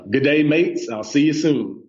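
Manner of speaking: lightly attempted Australian accent. Shown as a demonstration. Guest greeting Australian listeners on request, light Australian accent. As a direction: try out a playful Aussie greeting. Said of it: "if I can do my Australian accent".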